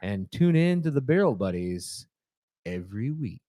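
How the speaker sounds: announcer. Acted. Show sign-off.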